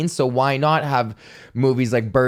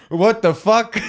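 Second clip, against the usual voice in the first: mock baffled Mozart; 6 semitones higher, slower than usual. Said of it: "he'd be like".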